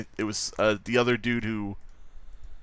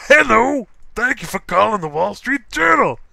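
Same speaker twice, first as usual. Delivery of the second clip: much higher, louder sing-song phone agent; mock call-centre greeting; 10 semitones higher, 7 dB louder than usual. Imagined Journal hotline agent answering, hammed-up chirpy greeting. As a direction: chirp it like a scripted support line. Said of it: "the person at the Wall Street Journal".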